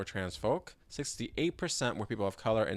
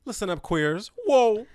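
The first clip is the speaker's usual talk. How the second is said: loud, high call out; loud announcement; 12 semitones higher, 13 dB louder than usual. Real, not acted. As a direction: shout for attention.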